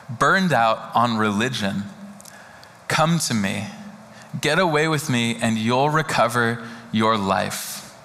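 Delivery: slow, low, gentle reading; scripture reading. Acted. Pastor reading the Message paraphrase to the congregation, gentle and slow. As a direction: read it tenderly, letting it land.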